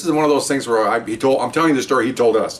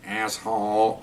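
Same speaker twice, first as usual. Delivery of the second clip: cussing parrot; 3 semitones lower, 7 dB quieter, much slower than usual. Retold or imitated. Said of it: "the bird looks at him".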